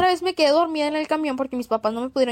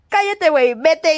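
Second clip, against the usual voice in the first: embarrassed; 5 dB louder, slower than usual. Retold or imitated. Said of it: "con toda la vergüenza del mundo".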